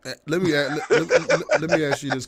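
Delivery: laughing through the words; stumbling in laughter. Real, not acted. Laughing while trying to ask.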